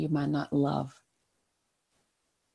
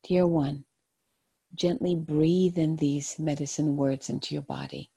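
gentle, hushed guided-meditation voice. Acted. Tarot card reading, meditative guidance.

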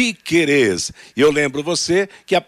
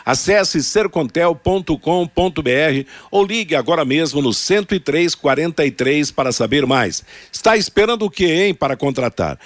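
ad read. Acted. Reads sponsor ad.

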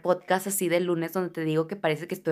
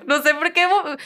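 high cracked voice, higher and louder; voice cracking; 9 semitones higher, 5 dB louder than usual. Real, not acted. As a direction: let the voice break on "vo-". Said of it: "mi voz". (voz quebrada y aguda)

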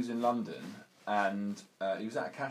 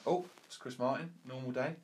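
offhand little "oh" of mock surprise; Ricky Gervais; 3 semitones higher, 5 dB quieter than usual. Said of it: "the Ricky Gervais".

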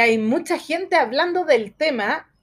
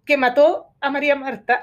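hiccuping between words; talking through a bout of hiccups; 2 semitones higher than usual. Real, not acted. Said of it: "tengo hipo". (con hipo)

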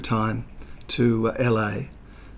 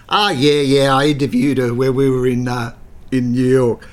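casual boast; 6 dB louder than usual. Retold or imitated. John boasting to executives.

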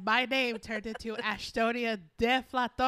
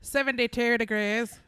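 loud voice-assistant impression; mock automated weather readout; Siri voice; 7 dB louder than usual. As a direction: announce it like a phone assistant. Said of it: "You should be a Siri voice".

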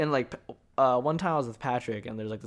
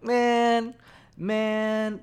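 much higher, louder cry of man, man; high excited exclaim; 9 semitones higher, 5 dB louder than usual. Real, not acted. Hyped podcaster exclaiming to listeners about being tall. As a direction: yelp it out, giddy.

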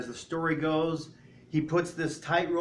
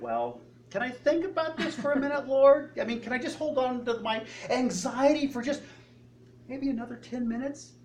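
higher-pitched reluctant bargaining; hedging plea; 6 semitones higher than usual. Acted. Believer bargaining with the Lord over anxiety, reluctant plea. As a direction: stall and plead for a little longer.

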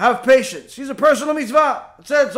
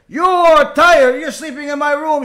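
screaming; 4 semitones higher, 6 dB louder than usual. Retold or imitated. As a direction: spit each word at the grandson. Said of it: "She starts screaming".

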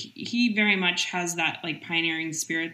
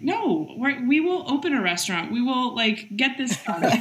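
raised, insistent, laughing at herself; mock defiant insistence; 5 semitones higher than usual. Boss telling her team she will open a restaurant, raised and insistent. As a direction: playfully refuse to back down. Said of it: "it's like".

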